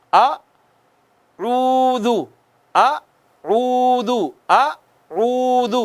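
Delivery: اعوذ chanted very slowly with rounded lips; Quranic recitation. Shown as a demonstration. Teacher models correct tajweed for a child, slow chant. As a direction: stretch اعوذ one alif long, lips round. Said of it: "جیسے".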